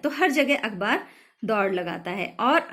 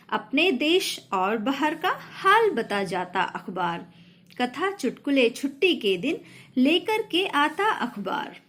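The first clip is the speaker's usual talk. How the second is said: poem recitation; 3 semitones higher than usual. Shown as a demonstration. Teacher recites poem lines. (कविता पाठ)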